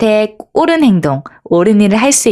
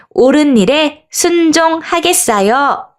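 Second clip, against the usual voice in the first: slow, higher-pitched pledge, evenly spaced; group call-out; 5 semitones higher than usual. Shown as a demonstration. Teacher leads children's pledge, slow mild call-out. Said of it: "우리 함께 외쳐보겠어요".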